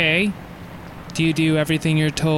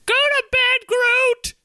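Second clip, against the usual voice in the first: high yelling wife; slower than usual. Acted. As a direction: shout it up the stairs, pitched high. Wife yells at child.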